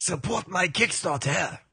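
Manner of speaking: slow, high mock-French accent; hammed-up French-accented appeal; French Tiger. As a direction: plead in a drawn-out comic French accent. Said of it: "I love French Tiger".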